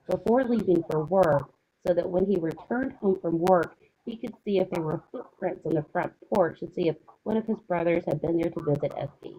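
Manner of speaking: muffled, like a covered mic. Real, not acted. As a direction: voice dulled behind a covered mic. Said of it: "You sound like you're muffled".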